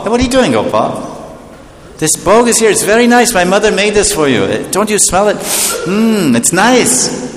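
put-on high, coaxing child's voice pleading with Gopal; pleading boy. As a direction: sweetly beg him to eat. Boy coaxing the deity to eat.

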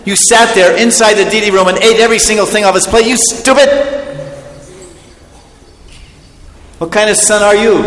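mother berating her son who ate the offering; scolding mother. Acted. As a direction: tear into the rascal son.

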